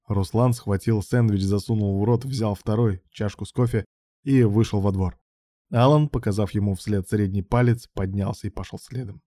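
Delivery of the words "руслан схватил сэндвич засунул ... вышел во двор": usual speaking voice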